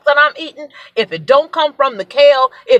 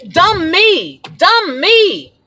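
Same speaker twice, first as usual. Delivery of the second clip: high, exasperated self-scolding; self-reproach; 7 semitones higher, much slower than usual. Real, not acted. Berates herself for eating the bar.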